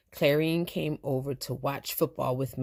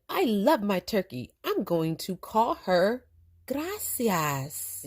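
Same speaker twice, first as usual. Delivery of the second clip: put-on happy boy; 5 semitones higher, slower than usual. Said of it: "Miguel said".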